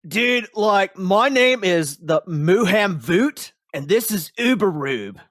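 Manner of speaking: high, loud, lazy stoner elf voice. Acted. Elf explaining to the fallen hero, high stoner voice.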